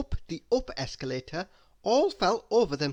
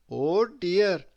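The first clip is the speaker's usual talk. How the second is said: flustered apology; 2 semitones higher, 5 dB louder than usual. A narrator's reading. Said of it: "said Mister Topsy-Turvy".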